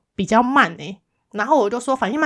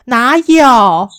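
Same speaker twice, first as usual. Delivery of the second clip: indignant retold complaint; 8 semitones higher, 7 dB louder than usual. Retelling coworker's shocked complaint.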